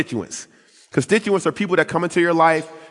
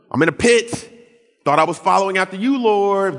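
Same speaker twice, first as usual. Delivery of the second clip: anxious plea; 6 semitones higher than usual. Retold or imitated. Man in the pit calling God, pleading. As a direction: cry up out of the pit. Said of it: "I would have been like".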